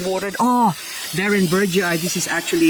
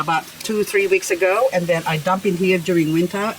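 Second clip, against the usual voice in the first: ordinary delivery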